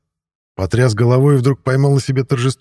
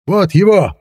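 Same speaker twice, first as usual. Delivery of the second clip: high-pitched hysterical pointing-out; single him out in an agitated cry; 9 semitones higher, 4 dB louder, slower than usual. A narrator's reading. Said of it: "истерика в голосе". (истерика в голосе)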